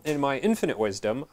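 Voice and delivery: mildly sarcastic self-mockery. Real, not acted. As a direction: say it with light, self-deprecating irony. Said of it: "I'm being sarcastic".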